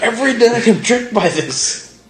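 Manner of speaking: laughing. Real, not acted. Host laughing at being tricked nightly, laughing high. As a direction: squeal it out while cracking up. Laughing at absurd neighbor bit.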